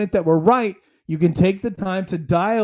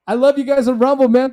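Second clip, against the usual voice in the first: excited shout-out; 6 semitones higher, 6 dB louder, faster than usual. Real, not acted. Hyped shout-out to Rumble viewers.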